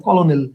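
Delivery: কলোনেল in three syllables, "ko-lo-nel"; spelling pronunciation. Shown as a demonstration. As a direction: sound the l and middle o in কলোনেল. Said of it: "actual বানান লিখলে".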